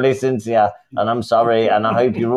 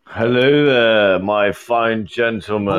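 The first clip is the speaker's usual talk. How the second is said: jokey put-on greeting; slower than usual. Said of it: "nah, I'm only joking".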